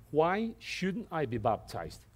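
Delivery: slow, weight on "shouldn't"; stress on shouldn't. Shown as a demonstration. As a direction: lean into "shouldn't" in "Why shouldn't I be baptized?". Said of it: "He doesn't say".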